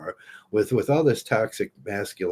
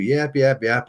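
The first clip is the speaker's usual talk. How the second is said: mock nagging; 4 semitones higher, 3 dB louder than usual. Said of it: "And she's yelling at you".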